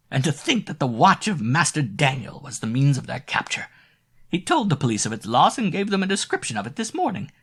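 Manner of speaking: put-on high, loud triumphant old woman; gloating landlady. A narrator's reading. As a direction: savour the news of their capture. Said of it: "cried Mother Gretel".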